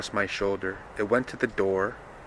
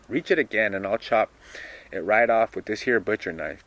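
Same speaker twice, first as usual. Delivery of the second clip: a louder, lightly voiced Dilsey threat; mock threat; 5 dB louder than usual. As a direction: warn him off, a touch louder. Reads Dilsey threatening with knife.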